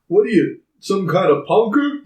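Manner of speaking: mock taunt. Casey Jones sizing up Raph in a retold fight, mock taunt. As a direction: imitate an incredulous challenger.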